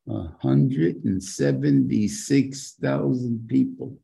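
A HUNDRED AND SEVENTY-SIX THOUSAND said slowly, word by word; slow, weighty stress on HUNDRED AND SEVENTY-SIX THOUSAND; emphatic repetition. Real, not acted. Repeats the number to drive it home.

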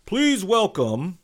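slow, high, loud drawn-out welcome; emcee introduction. Retold or imitated. Host bringing a guest on stage, emcee call. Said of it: "the guy goes".

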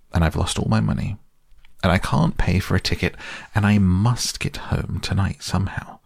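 a lightly voiced washerwoman, half-crying her woes; mild tearful lament. Toad disguised as a washerwoman begs the engine driver, mildly tearful. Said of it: "crying afresh".

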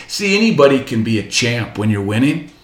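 usual speaking voice

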